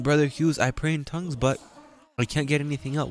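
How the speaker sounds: a hint of a frustrated churchgoer; imitated believer. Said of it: "I'm praying".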